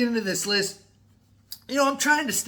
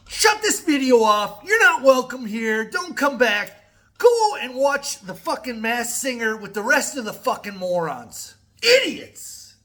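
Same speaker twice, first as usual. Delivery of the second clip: angry rant; 4 semitones higher, 5 dB louder than usual. Real, not acted. Ranting at drivers on phones.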